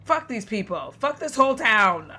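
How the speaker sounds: real frustrated yell at the game; angry outburst. Real, not acted. Streamer raging at the game town, angry yell. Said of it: "I'm so mad".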